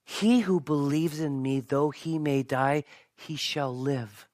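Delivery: slow, measured promise, softening at the end; deliberate words of Jesus. Retold or imitated. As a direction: state it slowly and surely. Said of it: "I like the way he says it".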